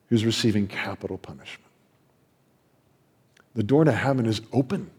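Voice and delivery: ordinary delivery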